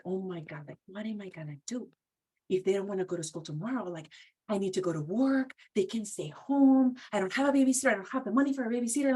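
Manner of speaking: worried mom. Retold or imitated. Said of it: "there's fear in the mom".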